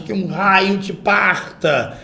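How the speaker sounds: slow, drawn-out exclamatory curse; emphatic curse. Shown as a demonstration. Teacher voices a character's curse, slow emphatic exclamation. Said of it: "Alguma coisa bem enfática".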